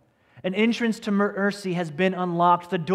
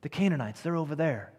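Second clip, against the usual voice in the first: readers agreeing; 5 semitones lower, 8 dB quieter than usual. Retold or imitated. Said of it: "they read and go".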